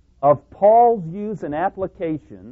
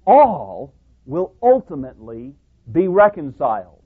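rising, louder pulpit declaration; preaching at full force; 2 semitones higher, 7 dB louder than usual. Acted. Preacher building to a loud declaration for the congregation. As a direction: press the point hard from the pulpit.

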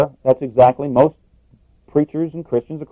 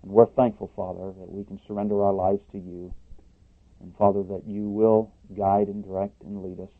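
soft reverent prayer voice; hushed closing prayer to the Father; 3 semitones lower, 4 dB quieter than usual. Acted. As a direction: pray quietly and humbly.

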